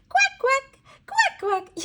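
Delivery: high squeaky quacking; bright high duck call for toddlers. Acted. Duck sound for child.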